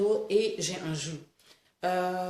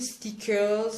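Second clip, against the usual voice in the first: slow, English-accented "stickers"; "stickers" pronounced the English way. Real, not acted. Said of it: "attention, c'est l'accent anglais".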